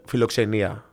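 philoxenia said the Greek way, fee-lo-KSEH-nee-ah; Greek word philoxenia. Shown as a demonstration. Host teaching the guest the Greek word, Greek pronunciation. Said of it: "This is now what we use the word".

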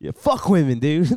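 half-hearted, unconvincing; insincere. Acted. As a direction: say it without meaning it. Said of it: "You don't even sound genuine".

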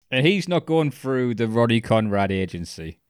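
usual speaking voice

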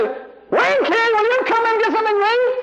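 very high, insistent mother calling; mother's second-level call. Retold or imitated. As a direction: imitate an impatient mother calling a child in. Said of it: "that was the second level".

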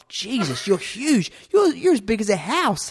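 high, loud comic astonishment; mock amazement. Opponent seeing how huge he got, mock amazement. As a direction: build to a high, incredulous exclamation.

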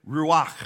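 "ruach" with a throaty final ch; Hebrew pronunciation. Shown as a demonstration. Pastor introduces the Hebrew word, "ruach" ending in a throaty ch. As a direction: end "ruach" on a Hebrew guttural ch. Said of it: "say it the way the Hebrew says it".

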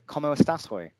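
careful English-accented Spanish greeting; halting phrasebook tourist. Shown as a demonstration. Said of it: "this is my bad Spanish".

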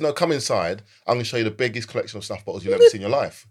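loud, fast sales pitch in a bad American accent; lightly put-on American accent, pushy and loud. Pushy New York shopkeeper luring a browser inside, bad American accent. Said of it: "that's my really bad American accent".

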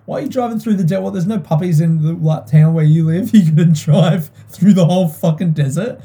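incredulous. Pretend. Imagined question to dad about drive.

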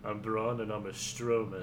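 a light put-on Russian accent; mock Russian accent, barely done. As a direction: play the wrestler with a joke Russian accent. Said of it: "why I'm using the accent".

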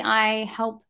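ordinary delivery

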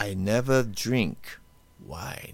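slow, fading vampire drawl; Dracula impression. Host quoting Dracula for cohost to guess, slow vampire voice. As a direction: draw it out like a creepy count. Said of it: "is it Dracula".

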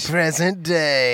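slow mock title-card readout; on-screen caption. Mocking a movie's needless time caption, slow announcement. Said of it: "we don't need them to go".

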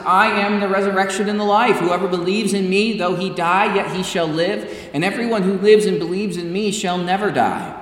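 proclaiming Jesus' words. Acted. Quoting Jesus to Martha.

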